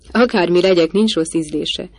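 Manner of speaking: mild jovial outburst; exclaiming. Acted. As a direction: toss it out with a laugh in the voice. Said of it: "kiáltott föl Henry Lyon".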